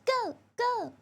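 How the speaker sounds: high loud go go cheer; excited cheering. Pretend. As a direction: cheer her on, rising. Cheering Bernice on.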